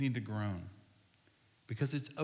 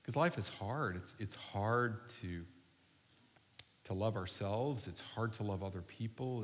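hushed, lowered voice leading a congregation in prayer; slow prayer; 3 semitones lower than usual. Real, not acted. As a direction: pray unhurriedly, leaving room to reflect. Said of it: "I'm gonna pray really slow".

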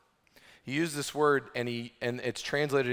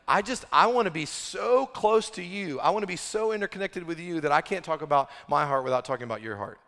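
longing to be close; 5 semitones higher, 4 dB louder than usual. Acted. Preacher voices a longing friend.

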